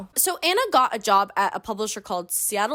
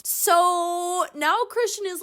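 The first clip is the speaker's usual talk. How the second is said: mocking; 7 semitones higher, much slower than usual. Real, not acted. Mocking his moping.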